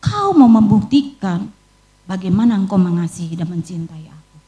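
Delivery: lightly voiced divine question, measured and weighty; Tuhan. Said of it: "Tuhan bicara begini".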